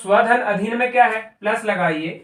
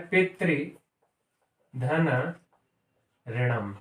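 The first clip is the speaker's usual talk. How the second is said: slow dictation; 5 semitones lower, 6 dB quieter, much slower than usual. Shown as a demonstration. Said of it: "teacher writes example slowly".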